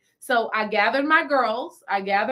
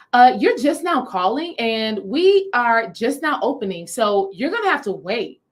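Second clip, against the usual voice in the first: lightly voiced curt clerk, a touch louder; curt clerk imitation; 4 dB louder than usual. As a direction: mimic the impatient store lady. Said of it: "a white woman".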